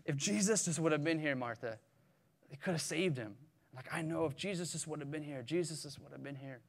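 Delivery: softly voiced regret, trailing down; disappointed. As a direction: lament it quietly, as a grieving sister. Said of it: "you could s-, sense that disappointment".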